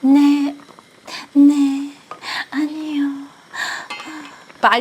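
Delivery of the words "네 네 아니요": lightly voiced dutiful daughter-in-law; sweet, polite yes-yes answers. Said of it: "trying to be one of those perfect daughter-in-laws".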